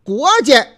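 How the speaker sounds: 国家 with 家 in a light neutral tone; light tone reading. Shown as a demonstration. Host shows listeners 国家 read with a light tone. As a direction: say 国家 with a light, unstressed 家. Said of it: "读清音".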